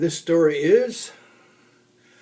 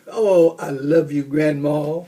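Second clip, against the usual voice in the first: yelled; 4 dB louder than usual. Acted. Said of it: "Little Bear yelled".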